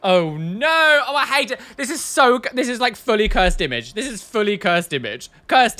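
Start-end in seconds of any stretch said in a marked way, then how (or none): none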